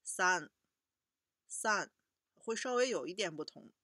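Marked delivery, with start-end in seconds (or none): 0.0-1.9 三 said as Japanese san. Shown as a demonstration. Teacher modelling 三 as Japanese san, a little louder. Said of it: "三就是三了".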